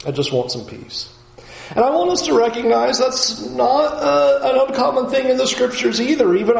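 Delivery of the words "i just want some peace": weary plea. Acted. Voicing Job's longing for rest.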